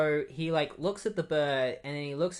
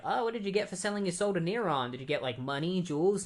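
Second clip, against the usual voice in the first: curious question; 4 semitones higher, faster than usual. Retold or imitated. Voices Trish's curious question.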